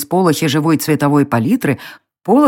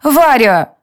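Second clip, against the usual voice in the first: softer; 9 semitones higher, 4 dB louder than usual. A narrator's reading. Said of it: "уже мягче добавила она".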